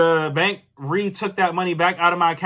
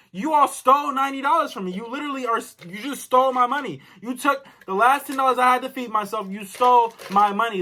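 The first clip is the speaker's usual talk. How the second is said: higher-pitched retold accusation; angry accusation; 3 semitones higher than usual. Customer telling the lady they stole her money, angry. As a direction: accuse them, driving each sentence home. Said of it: "That's what I'm telling the lady".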